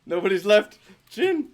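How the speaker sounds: loud, high call to a teammate. Real, not acted. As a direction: shout the name across. Calling teammate in fight.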